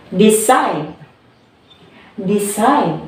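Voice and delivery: "decide" with the weight on CIDE; second-syllable stress. Shown as a demonstration. Teacher showing the class second-syllable stress, "decide" strong on CIDE. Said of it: "How about the second syllable of stress?".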